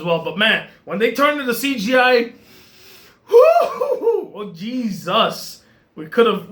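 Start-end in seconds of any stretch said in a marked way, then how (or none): 3.3-5.6 laughing disbelief. Real, not acted. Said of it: "reacting to CGI reindeer".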